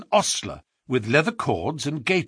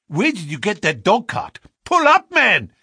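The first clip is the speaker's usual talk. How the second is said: building to a loud, high yell; 7 semitones higher, 4 dB louder than usual. A narrator's reading. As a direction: bark the order at the driver. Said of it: "he yelled".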